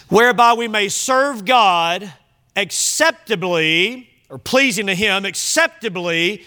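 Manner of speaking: slowed, weighed out each word; slow emphasis. Shown as a demonstration. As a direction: lean on acceptably slowly. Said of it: "Listen to this".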